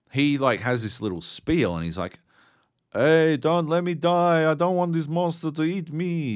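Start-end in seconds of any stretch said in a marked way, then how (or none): 2.9-6.3 mock French accent, pitched higher; hammed-up French soldier pleading in a French accent. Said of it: "He's French".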